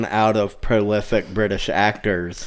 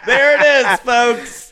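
laughing; 10 semitones higher, 3 dB louder, slower than usual. Real, not acted. Laughing after a joke.

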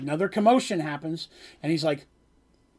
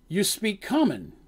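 slow question; 3 semitones higher, slower than usual. Acted. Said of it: "is what they say".

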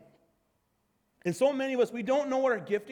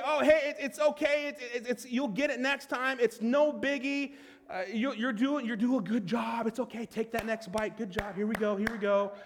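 encouraging; 2 semitones higher than usual. Pretend. Voicing the gift of encouragement.

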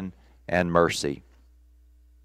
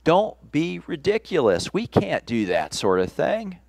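scoffing disbelief; 2 semitones higher than usual. Retold or imitated. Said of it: "read in this way, the verse would say".

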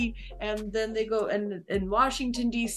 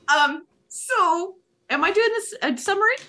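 put-on higher, louder South African accent; 7 semitones higher, 6 dB louder than usual. Asking about doing the summary, in South African accent.

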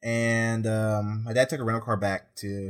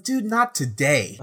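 weary brush-off; 7 semitones higher, slower than usual. Retold or imitated. Tired, fed up brush-off.

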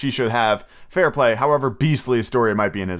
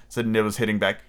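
ordinary delivery, nothing marked

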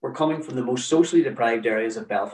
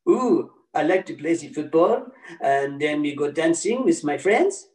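lightly put-on French accent, slowing at the end; a pupil bluffing in English with a hint of French accent; schoolboy playing it French, only a light French accent; mock French accent; 3 semitones higher than usual. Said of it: "English, but with a French accent".

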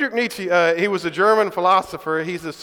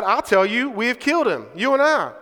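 madman crying out; 3 semitones higher than usual. Acted. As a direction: cry it out like a madman in the market. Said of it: "he cried".

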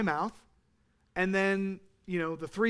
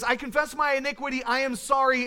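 higher-pitched, urgent confession; earnest confession; 4 semitones higher, faster than usual. Acted. Preacher voicing David confessing his sin, earnest. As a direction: confess it as if you mean it. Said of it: "It's not this half-hearted".

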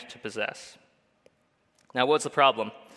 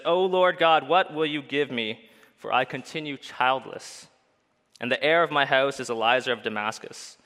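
frustrated, hopeless plea. Retold or imitated. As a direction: let the frustration crack out, then sag into tired despair. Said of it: "You can almost hear the frustration in his voice".

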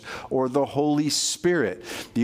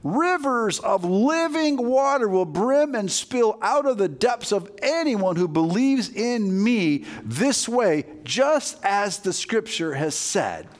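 high, slow proclamation easing toward the end; acted yell, raised in pitch; 6 semitones higher, slower than usual. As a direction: call it out to a crowd, stretching the words. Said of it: "He's yelling this".

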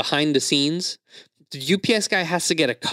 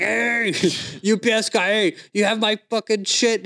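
imitated yelling; 8 semitones higher than usual. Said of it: "yelling at the U P S guy out the window".

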